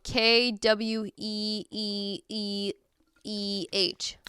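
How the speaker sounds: drawn-out Boston spelling; Boston accent. Shown as a demonstration. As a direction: stretch it slowly like a Bostonian. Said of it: "how to say queer in a Boston accent".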